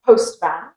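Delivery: postman with a clear A in man; full vowel. Shown as a demonstration. Teacher showing the spelling of postman, full vowel. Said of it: "the way you pronounce that A is completely different".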